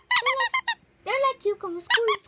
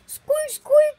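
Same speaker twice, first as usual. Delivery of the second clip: higher squeaky toy voice, rising; 5 semitones higher, 4 dB louder than usual. Pretend. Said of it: "Why'd you say like that".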